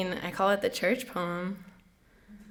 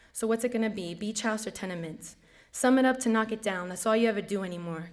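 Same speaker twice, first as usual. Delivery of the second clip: rhythmic recitation, leaning on the rhymes; spoken-word poem. Acted. Poet walking away from the barrio that made them, spoken-word recitation. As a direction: drive each verse forward, then let it settle. Performs poem titled Nadia.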